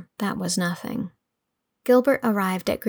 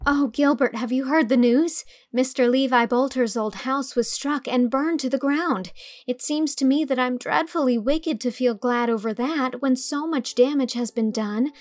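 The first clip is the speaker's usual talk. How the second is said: Anne bursting in with news, higher and eager; Anne, excited; 4 semitones higher than usual. Acted. Anne running down to tell Gilbert, eager girl. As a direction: rush in breathless with big news.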